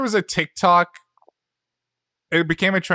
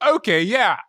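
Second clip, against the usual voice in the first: rising excitement; 3 semitones higher than usual. Retold or imitated. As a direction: grow excited until shouting. Retold delighted recognition.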